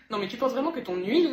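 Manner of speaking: usual speaking voice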